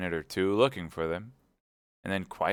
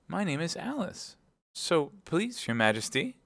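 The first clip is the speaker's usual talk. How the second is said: very polite; 10 semitones higher than usual. Acted. Alice answering the queen, very polite. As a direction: answer deferentially in a higher voice. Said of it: "very politely".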